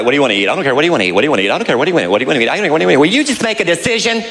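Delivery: mild mock squabble; bickering couple. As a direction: bicker over where to eat. Couple argues over food.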